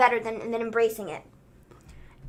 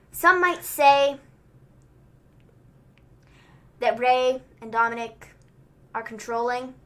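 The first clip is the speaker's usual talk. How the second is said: Seth Rollins; 4 semitones lower than usual. Retold or imitated. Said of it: "Mister Sethrin is like".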